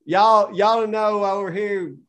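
put-on redneck country twang; redneck accent. Shown as a demonstration. Country man explaining a tire repair, in a redneck accent. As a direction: do a redneck, stretching out the first words. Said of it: "like, a redneck".

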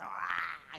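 held-back mock wail; softened imitation of a bawling kid; imitated child's scream. Pastor mimicking a noisy child in church, mock scream. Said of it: "Más gritaba el mono".

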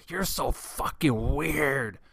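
drawn-out taunt from Doug; mock yell. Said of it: "He's like".

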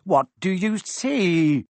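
a touch of impatience from Quirrell; impatient. Acted. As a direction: demand an answer with impatience. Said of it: "said Quirrell impatiently".

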